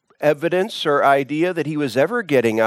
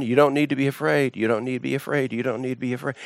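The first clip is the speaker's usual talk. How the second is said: gentle reassurance; 4 dB quieter, much faster than usual. Real, not acted. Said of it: "preacher reassures, fading softer".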